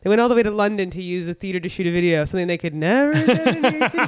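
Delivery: hammed-up bafflement, pitch climbing as it goes; mock incredulity. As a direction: build into a high, amused mock outrage. Mock incredulous retelling of own reaction.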